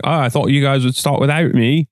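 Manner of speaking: mock Australian accent; lightly put-on Australian lilt; imitating absent friend's accent. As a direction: do your mate's Australian accent. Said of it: "was a really good impression".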